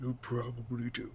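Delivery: put-on orc character voice. Playing an orc in a tabletop game, answering another character, orc voice. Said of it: "Blue's gonna drop the orc voice for a second".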